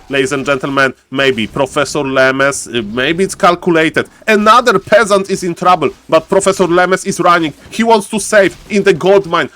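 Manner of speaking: live play-by-play. Real, not acted. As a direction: call the action as it unfolds.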